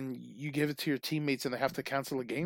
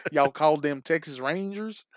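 bad Southern accent.

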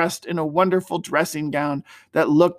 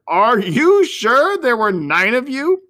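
higher, louder, slow jolly question; merry uncle; 6 semitones higher, 4 dB louder, slower than usual. A narrator's reading. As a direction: tease the children merrily. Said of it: "he asked merrily".

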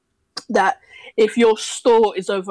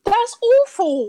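mock dismay; 13 semitones higher, 4 dB louder, slower than usual. Mock horror at losing accent.

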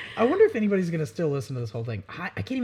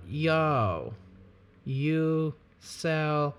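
man doing a woman's voice; much slower than usual. Pretend. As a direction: ask it like a basic girl. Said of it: "I sound like the basicest girl right now".

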